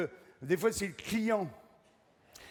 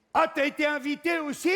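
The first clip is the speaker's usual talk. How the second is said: higher, louder surprised friend; mock friend question; 8 semitones higher, 5 dB louder than usual. Friend meeting him at the party, higher surprised question. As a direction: ask it like a surprised pal.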